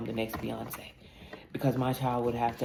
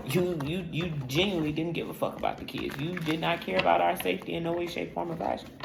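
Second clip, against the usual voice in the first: higher, heated accusation; pitched-up scolding of a neglectful mom; raised accusing rant; 5 semitones higher than usual. Retold or imitated. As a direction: call her out, voice up and sharp. Confronting her absent mother.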